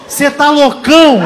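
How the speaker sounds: incredulous shout. Retold or imitated. Friend shouting in disbelief.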